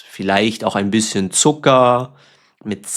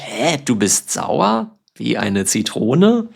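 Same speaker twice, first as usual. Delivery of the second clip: confused. Retold or imitated. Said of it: "Das klingt komisch".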